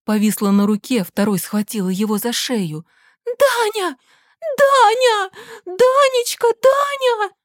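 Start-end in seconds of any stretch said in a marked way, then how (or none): 3.2-7.3 очень высоко, писклявым визгом; верещи в панике; визгливо. A narrator's reading. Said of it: "заверещала писклявым голосом свекровь". (свекровь верещит на внука, очень высоко и пискляво)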